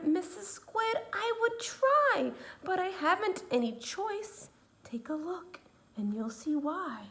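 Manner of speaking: hushed glum reply; fish answering. Acted.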